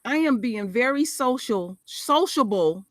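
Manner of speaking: "sociable" said slowly and carefully; "sociable" stretched out as the little cousin said it; child's wording. Retold or imitated. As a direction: sound out "sociable" like a small child with a big word. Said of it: "that's how he said it".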